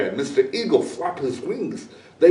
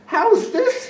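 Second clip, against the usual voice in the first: put-on very high child's question; eager question. A narrator's reading. Boy shows eagle his carrots, eager. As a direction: ask like an eager kid.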